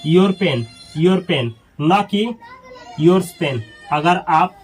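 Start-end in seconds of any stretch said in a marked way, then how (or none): 3.0-3.6 "yours" leaned on as the mistake; wrong form stressed. Shown as a demonstration. Teacher to students, marking "yours pen" as wrong. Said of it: "गलत है".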